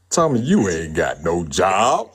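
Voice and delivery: slow, drawn-out comic impression; Martin Lawrence. Caller teases the host about having no job, comic impression. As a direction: stretch it out as a teasing celebrity impression. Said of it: "in my Martin Lawrence voice".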